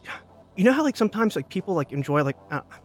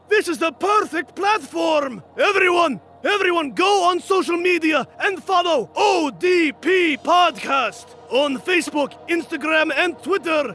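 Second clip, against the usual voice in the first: booming barbarian warlord boast; 5 semitones higher than usual. Acted. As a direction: bellow it like a conqueror. Genghis Khan boasting to stream chat.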